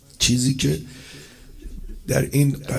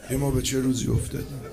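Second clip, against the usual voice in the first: soft fast murmur of «ما به چه روزی»; quiet broken echo; 3 semitones lower, 6 dB quieter, faster than usual. Real, not acted. Preacher repeats lament to mourners, hushed. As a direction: let it collapse into a hushed echo.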